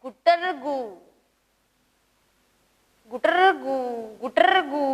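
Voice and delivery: rolling "gutar-gu" coo; pigeon call. Shown as a demonstration. Teacher repeating the pigeon's call for pupils, rolled coos. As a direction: imitate a pigeon, trilling the r. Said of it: "कशा प्रकारे?".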